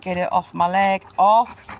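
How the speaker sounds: loud, sharp scolding of a pushy dog; firm telling-off. Real, not acted. Owner scolding the dog pushing a ball onto her leg, loud and firm.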